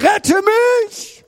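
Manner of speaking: high, loud plea for rescue; shouted cry. Acted. Sinking Peter begs Jesus to save him, high desperate shout. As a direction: yell desperately for help. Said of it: "schrie er".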